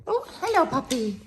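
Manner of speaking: cooing pet talk. Real, not acted. Greeting the puppy.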